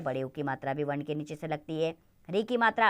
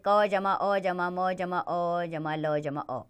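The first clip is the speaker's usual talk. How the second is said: put-on slow, sound-by-sound spelling for children; much slower than usual. Shown as a demonstration. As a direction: build the word piece by piece, slowly. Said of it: "spelling out a word slowly". (धीरे-धीरे शब्द जोड़कर बोलना)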